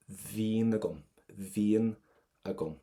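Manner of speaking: "Vín" starts on a clear V; "Vín agam" in careful pieces, V sounded at the start. Shown as a demonstration. Teacher wants the V heard, clear V on "Vín". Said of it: "is that V sound here".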